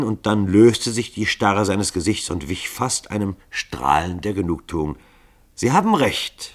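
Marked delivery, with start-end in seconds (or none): 5.5-6.5 a pleased declaration, raised; announcing, higher and louder. A narrator's reading. Dragomilow conceding to his killers, pleased and loud. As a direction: proclaim it with satisfaction. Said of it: "verkündete er".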